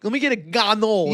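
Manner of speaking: "ganol" for cannoli with no i at the end; dropped final vowel. Acted. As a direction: order a "ganol", Italian-American style. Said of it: "there's an I at the end".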